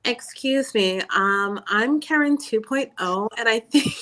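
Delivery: lightly put-on annoying Karen voice. Caller mocking a woman dragged online, lightly annoying Karen. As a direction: play a mildly irritating, entitled Karen. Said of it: "her voice is just, just annoying".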